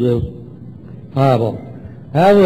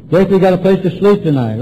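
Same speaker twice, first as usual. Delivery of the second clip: brisk, higher-pitched list item; dictating; 4 semitones higher, faster than usual. Retold or imitated. Sponsor dictating to newcomer, dictating briskly. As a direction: rattle off the next item. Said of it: "you write and I'll dictate".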